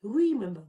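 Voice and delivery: "Remember" with a rounded English r; corrected "Remember". Shown as a demonstration. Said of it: "on dit remember".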